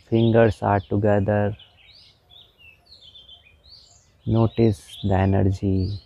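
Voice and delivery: slow, measured meditation guide with long pauses; guided meditation. Real, not acted. Meditation teacher guiding listeners through palm movements, slow guided meditation. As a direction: draw out the instructions, unhurried and even.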